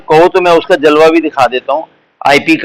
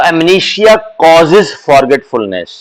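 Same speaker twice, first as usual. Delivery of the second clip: very slow, each word laid out; slow model sentence; much slower than usual. Shown as a demonstration. Teacher spelling out the analogy slowly for students. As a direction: dictate it slowly to the class.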